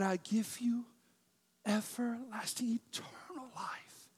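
soft, reverent whisper; tender hushed whisper. Acted. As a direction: breathe the promise to each believer. Quotes God's promise tenderly.

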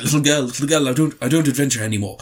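lightly imitated Welsh accent, quick start; reluctant Doolittle with a hint of Welsh. Doolittle refusing the little girl, in mild Welsh accent. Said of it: "That's kind of his Welsh accent".

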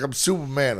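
badly faked French accent, lightly done; hint of an unplaceable foreign accent; muddled foreign accent. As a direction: imitate a boaster in a vague foreign accent. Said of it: "an Arabic accent that you were doing".

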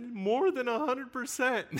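a hint of a tearful child; young boy answering. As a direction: say it slowly like a small boy in awe. Quoting the crying boy.

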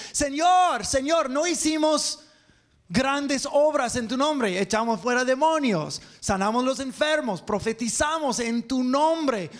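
pleading crowd. Acted. Preacher voicing false followers begging Jesus, high pleading. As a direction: beg like people sure they earned heaven.

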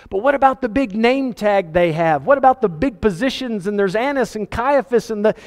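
worried objection. Acted. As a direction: push back anxiously, pitch lifted. Acting John's worried objection to God.

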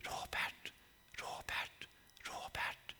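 eerie whispered name, very soft; hushed, voiceless calling; whispers. Retold or imitated. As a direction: whisper it like a voice inside the head. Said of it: "Jag hör viskningar i mitt huvud".

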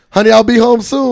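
high, loud stiff robot line; mock android signing off. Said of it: "Better watch out".

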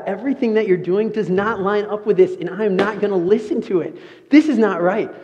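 standing up to the pastor, a hint of anger; confrontational. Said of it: "a super in-your-face confrontational person".

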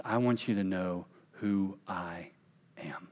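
tender, slow whisper; slow hushed whisper to a broken woman. Acted. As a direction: whisper it to her gently. Jesus speaking to broken woman.

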